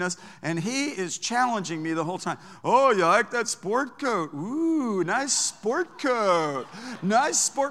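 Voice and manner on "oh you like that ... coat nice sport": slow, drawn-out sneer; mock the sport coat slowly. Unhinged passenger mocking the preacher's coat, slow sneer. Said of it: "when he mocked me about my sport coat".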